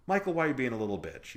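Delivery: mimicked excited scolding, fast and loud; imitating friend's excitement. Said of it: "when I say excited, I mean like".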